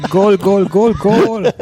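high, loud mock goal call, laughing; goal cheer. Jokes about the Portuguese song, hammed-up goal cheer. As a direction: shout Goal like a stadium announcer.

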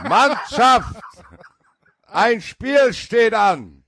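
high, very slow rallying call; halftime pep speech. Retold or imitated. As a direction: stretch it out like a coach firing up the team. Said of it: "So wird wahrscheinlich Thomas Hessler seine Kabinenansprachen machen".

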